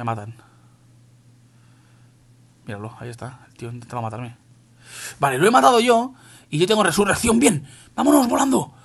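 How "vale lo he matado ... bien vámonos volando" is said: high, loud excited burst; euforia de juego. Real, not acted. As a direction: call it out high and loud, thrilled to escape. Mata al rival y escapa. (emocionado, agudo y a voces)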